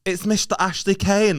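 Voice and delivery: slow, high announcer drop; DJ jingle voice. Retold or imitated. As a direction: drag out the name like a DJ jingle. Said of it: "he'd go".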